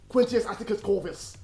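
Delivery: lightly hammed-up English accent, as the actor did it; Kiefer Sutherland's English accent. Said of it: "I'm gonna try and do that impression now".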